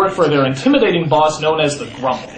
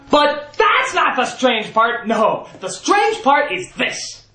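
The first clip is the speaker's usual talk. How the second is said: drawn out, higher suspense reveal; slow dramatic build; 7 semitones higher, slower than usual. Acted. Narrator teasing the audience, slow and suspenseful. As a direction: stretch it out like a drumroll.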